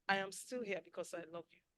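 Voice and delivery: soft, sincere I love you; a quiet, devoted promise; tender vow. Shown as a demonstration. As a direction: say it like you mean it. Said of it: "It's not words".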